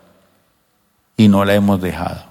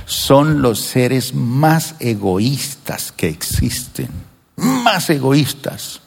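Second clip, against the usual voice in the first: slow emphasis; 3 dB quieter, much slower than usual. Acted.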